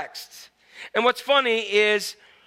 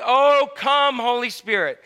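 loud, raised evangelist call; showy invocation; 3 semitones higher, 4 dB louder, slower than usual. Acted. Evangelist to the tent meeting, showy invocation. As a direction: call down the Spirit for a grand finale.

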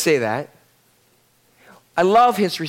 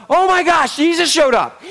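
higher, startled hostess reaction; flustered surprise; 7 semitones higher than usual. Acted. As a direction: blurt it out, caught off guard by a guest. Acting Martha's shock at surprise visit.

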